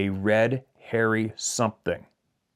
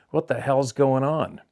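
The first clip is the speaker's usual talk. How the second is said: retold yell; 5 semitones higher, slower than usual. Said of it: "He yells".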